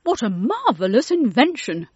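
Mister Logan marvelling at the hand dryer, excited cry. A narrator's reading. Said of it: "cried Mister Logan".

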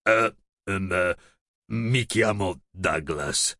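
flustered dragon babbling his name. Acted. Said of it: "babbled il drago".

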